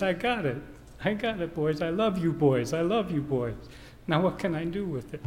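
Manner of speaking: retold tearful father. Dad telling his boys he loves them, retold tearfully. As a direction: voice a dad moved to tears, without real sobbing. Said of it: "and he starts crying".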